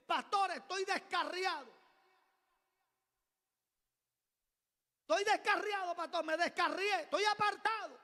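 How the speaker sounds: high, loud, pleading confession; a young man loudly confessing he has strayed; anguished confession. Retold or imitated. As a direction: cry out that you've strayed.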